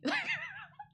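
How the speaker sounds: a sharp, very high burst of laughter. Real, not acted. Vlogger laughing at her own one-sided story, high laugh. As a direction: crack up at your own confession.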